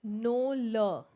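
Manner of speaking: saying the letter name "L"; "L" as the name "el", not the sound; wrong letter name. Shown as a demonstration. Teacher showing the wrong way, letter name "L". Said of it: "It is L".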